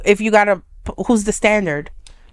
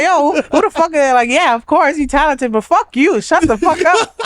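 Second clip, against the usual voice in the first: higher, laughing mock swagger; laughing mock challenge; 6 semitones higher than usual. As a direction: laugh through a cocky challenge. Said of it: "I was like".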